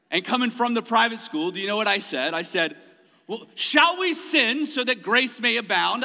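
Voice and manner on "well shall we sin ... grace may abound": a light, mock-proper British accent. Answering the cussing kid in a mock British accent. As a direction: slip into a hint of a British accent, lifted and a bit louder. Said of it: "why I have a British accent when I said that".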